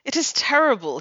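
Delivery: hammed-up Italian husband bemoaning; Italian accent. Critic voicing Geronimo's complaint to Poirot, mock Italian accent. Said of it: "here's Geronimo, Maria's husband".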